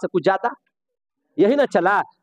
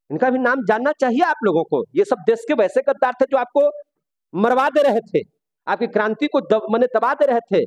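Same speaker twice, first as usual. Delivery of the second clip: higher-pitched indignant denunciation; 4 semitones higher than usual. Real, not acted. Teacher denouncing traitors of the revolution to his class, indignant. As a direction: denounce them with rising heat.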